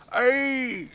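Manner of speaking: very high, loud startled crone shriek; piercing shriek. Acted. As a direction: shriek as if jolted from work. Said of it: "gives a piercing shriek".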